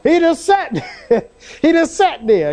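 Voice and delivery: chuckling through the words; laughing. Real, not acted. Preacher amused at Jesus just sitting there, laughing. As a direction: let the laugh break into it.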